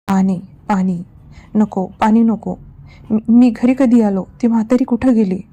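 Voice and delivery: confused rambling just out of a nightmare; frightened babbling. Acted. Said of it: "तो असंबंध बडबडत राहिला". (घाबरून असंबंध बडबड)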